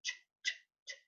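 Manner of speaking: "ch" as a short, voiceless burst; isolated CH sound. Shown as a demonstration. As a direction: pop out each "ch" separately. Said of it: "the correct pronunciation is".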